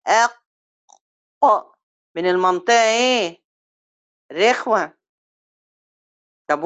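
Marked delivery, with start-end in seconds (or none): 0.1-1.8 heel traag uitgesproken أق met hamza ervoor en een harde q achter in de keel; qaf demonstreren. Shown as a demonstration. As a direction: spreek أق langzaam uit en laat de q diep in de keel botsen. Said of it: "لو القاف بيبقى أقصى اللسان".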